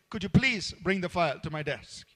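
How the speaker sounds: gentle, gracious asking; polite request. Shown as a demonstration. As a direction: ask it kindly, with "please". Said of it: "You say".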